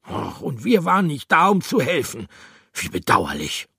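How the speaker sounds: high, mocking regret; reproachful voice. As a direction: sound falsely sorry. Reproachful character.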